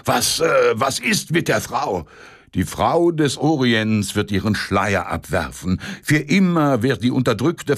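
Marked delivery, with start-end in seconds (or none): 0.0-2.1 excited stammer. Acted. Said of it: "Semjonitsch zitterte vor Erregung".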